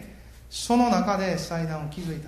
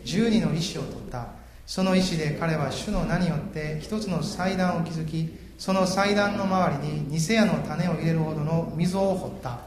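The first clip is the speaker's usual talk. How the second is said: slow, louder formal Bible reading; scripture reading; 6 dB louder, slower than usual. Acted. Preacher reading the passage to the congregation, slow and solemn. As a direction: read the verses out slowly and solemnly.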